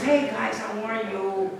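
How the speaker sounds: lightly imitated Spanish accent; touch of Spanish-accented charm; Antonio Banderas accent. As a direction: greet with a hint of a Spanish accent. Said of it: "he has an accent like Antonio Banderas".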